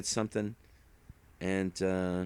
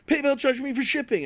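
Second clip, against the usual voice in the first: squeaky complaining buyer voice; high whiny buyer; 5 dB louder than usual. Retold or imitated.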